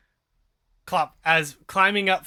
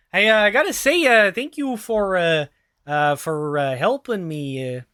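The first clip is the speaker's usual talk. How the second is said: a nervous Minnesotan catching up; Minnesota accent. Acted. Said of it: "Hector sounds like he's from Minnesota".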